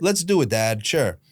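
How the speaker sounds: mildly sarcastic agreement. Retold or imitated. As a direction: humour Dad as if playing along. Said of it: "I was being sarcastic back".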